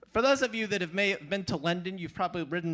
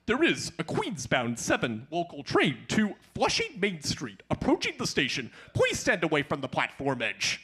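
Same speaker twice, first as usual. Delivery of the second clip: subway announcer; 5 semitones lower than usual. Retold or imitated. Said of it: "the voice that goes".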